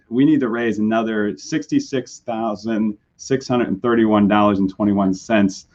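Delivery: hoarse from a sore throat. Real, not acted. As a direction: voice worn from illness. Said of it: "sorry for my voice".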